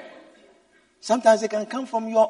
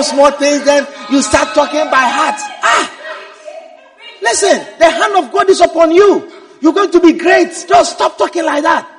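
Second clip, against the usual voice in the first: raised, louder elder's urging; insistent scolding; 3 semitones higher, 4 dB louder than usual. Acted. An older believer urging a young prophet to demand respect, insistent. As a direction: lecture them forcefully like a senior.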